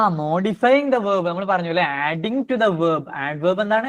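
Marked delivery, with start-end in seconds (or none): 0.1-1.3 each word held and drawn out; slow dictation. Shown as a demonstration. Teacher gives the adverb definition as very slow dictation. 1.8-3.0 each word held and drawn out; slow dictation. Shown as a demonstration. Teacher gives the adverb definition as very slow dictation.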